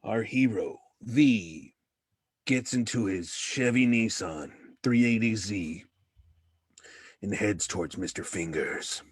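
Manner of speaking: mock-epic narrator voice; story narration. Player narrating his hero's drive like a storyteller.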